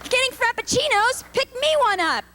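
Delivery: high, fussy calls; aerobics instructor. Retold or imitated. Instructor calling after ladies leaving for frappuccinos, high and fussy. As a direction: chase them down sweetly then scold.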